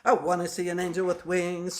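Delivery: evenly repeated affirmation to oneself; steady, understated chant-like affirming; self-affirmation. Retold or imitated. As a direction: repeat it like a rhythmic mantra. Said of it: "kind of affirming to myself".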